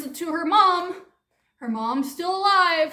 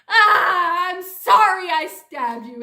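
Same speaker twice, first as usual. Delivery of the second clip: louder, hammed-up weepy sorry; mock tearful apology; 3 semitones higher, 6 dB louder than usual. Creature apologizes to the girl, hammed-up weepy. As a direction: blubber a fake apology.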